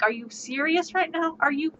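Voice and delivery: disbelief building to an exasperated outburst; exasperated disbelief at the party; incredulous. Retold or imitated. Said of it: "I'm standing there looking at everyone like".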